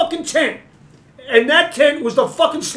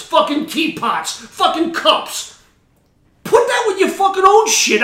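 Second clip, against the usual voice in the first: angry rant; 3 semitones higher than usual. Real, not acted. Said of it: "I'm done with that rant".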